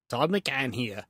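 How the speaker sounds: slow, laughing fake Yorkshire accent; sloppy British put-on; bad Yorkshire accent. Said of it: "told you I suck at accents".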